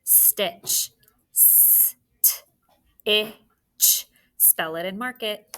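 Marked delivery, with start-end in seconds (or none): 0.0-0.9 breathy whisper of the word Stitch; whispered dictation word. Shown as a demonstration. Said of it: "dictation word repeated". 1.3-2.0 whispered spelling. Shown as a demonstration.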